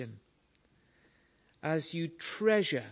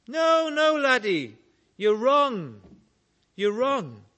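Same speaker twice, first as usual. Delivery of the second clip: put-on old lady's protest; 6 semitones higher, 7 dB louder, slower than usual. Old lady objects again.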